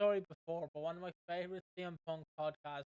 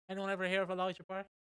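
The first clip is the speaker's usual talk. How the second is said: deadpan dig; 3 semitones higher, faster than usual. Retold or imitated. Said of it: "C M Punk just going".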